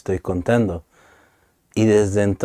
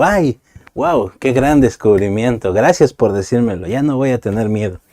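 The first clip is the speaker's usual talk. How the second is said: sarcastic wow, hammed-up; sarcastic thanks; 3 semitones higher, 5 dB louder than usual. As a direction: fake gratitude for obvious advice. Mock reply to empty comfort.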